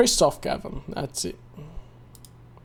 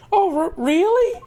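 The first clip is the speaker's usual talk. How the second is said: put-on much higher, stammering flustered girl voice; a girl tripping over her words; 13 semitones higher than usual. Girl answering the charmer, high and flustered.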